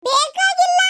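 high, loud snap of no; a high, loud, curt no; sharp refusal. Acted. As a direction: cut him off flatly. Curt refusal of the offered dosa.

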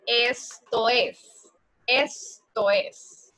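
each word drawn out slowly for students; slow drilled "Esto es"; slow model phrase. Shown as a demonstration. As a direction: spell it out slowly like a teacher. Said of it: "yo digo".

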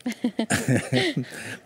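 high, helpless laughter; real laugh. Real, not acted. Doctor asked how to begin treatment, laughing. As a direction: burst out laughing before answering. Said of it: "ضحكت دكتورة".

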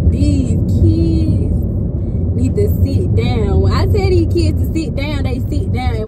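loud, emphatic joking command; mock sternness. Joking about bossing kids, loud mock sternness. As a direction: play at laying down the law. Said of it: "Don't take me serious when I say that".

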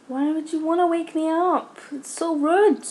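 high-pitched, put-out protest; indignant complaint. Real, not acted. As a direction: complain in high, offended tones. Indignant at being woken in game.

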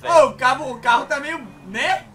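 shouting. Real, not acted. Alarm about the car.

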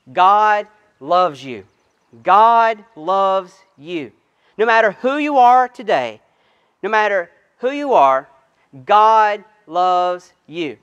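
slow, deliberate pulpit emphasis; slow preaching. Acted. Pastor telling drive-in listeners God loves them, slow and emphatic. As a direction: let each word land slowly.

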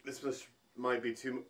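fast, cut off by burning; sputter, can't get words out; choking on spice. Real, not acted. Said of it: "I can't even finish my sentence".

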